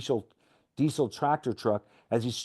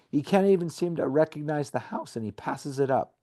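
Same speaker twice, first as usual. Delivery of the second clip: ordinary talk, nothing marked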